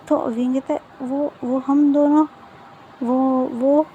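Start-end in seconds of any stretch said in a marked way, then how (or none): 1.1-3.9 slow, halting false starts on "वो"; hesitant stammering. Retold or imitated. Wing stumbles when asked to freshen up together, hesitant. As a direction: act out a tongue-tied, hesitant reply. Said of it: "वो, वो करना बंद करो".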